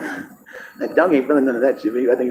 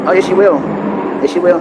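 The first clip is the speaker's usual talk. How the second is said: insisting; 5 semitones higher than usual. Real, not acted. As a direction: shout it back as certain. Insisting to someone off-mic.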